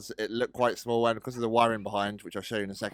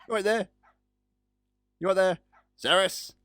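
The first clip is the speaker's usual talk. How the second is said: high cooing call; 9 semitones higher, 5 dB louder than usual. Pretend. Calling to the cat.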